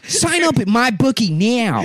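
high, slow, hammed-up Mid-Atlantic; mock a glamorous old Hollywood star; Mid-Atlantic accent. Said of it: "you're from the Mid-Atlantic".

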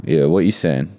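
put-on East End accent. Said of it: "What's that accent you put on".

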